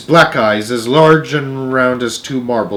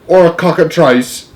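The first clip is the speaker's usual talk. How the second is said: loud, high alarmed exclamation; yell; 5 semitones higher, 5 dB louder than usual. A narrator's reading. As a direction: yell out a worse possibility. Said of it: "yelled the chief of police".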